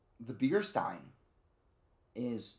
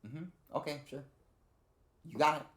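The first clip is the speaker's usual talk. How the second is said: higher, readily compliant replies; Ashley; 6 semitones higher than usual. Acted. Imitating Ashley accepting "follow me", higher and compliant. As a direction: agree obligingly in a lightly raised voice. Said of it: "Ashley not being like".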